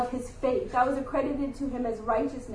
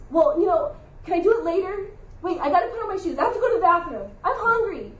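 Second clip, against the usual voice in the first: put-on higher, stalling whiny boy; higher whiny son putting off the trash; whiny kid; 5 semitones higher, faster than usual. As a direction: make excuses like a reluctant kid. Son stalling chores, voiced.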